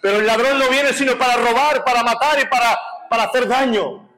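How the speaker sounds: impassioned scripture proclamation; preaching. Acted. Preaches quoting Jesus' words.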